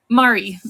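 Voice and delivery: "Murray" with an open first vowel, "MAH-ree"; careful pronunciation. Shown as a demonstration. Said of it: "I can't pronounce this right".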